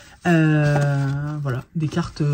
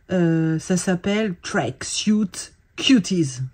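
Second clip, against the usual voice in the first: slow whispered name; slow hushed reveal; much slower than usual. Real, not acted. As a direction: breathe the name out slowly.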